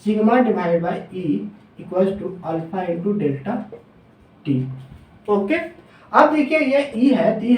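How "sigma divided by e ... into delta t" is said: formula spelled out slowly, word by word; slow dictation. Shown as a demonstration. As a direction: dictate it slowly so students can write. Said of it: "तो हम यहाँ पे लिख सकते हैं". (धीरे-धीरे लिखवाते हुए)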